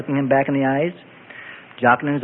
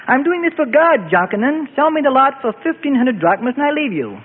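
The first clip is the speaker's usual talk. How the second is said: earnest plea; 9 semitones higher than usual. A narrator's reading. Joseph pleading in haggling.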